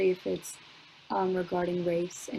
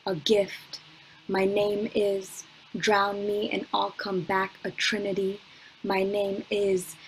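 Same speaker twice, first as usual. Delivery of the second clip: spoken word poem; 3 dB louder than usual. Acted. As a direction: let each "My name is" land, then build.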